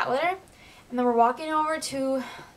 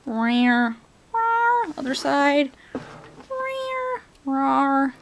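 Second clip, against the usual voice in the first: playful roar; 4 dB louder, much slower than usual. Pretend. Playful monster noises at boots.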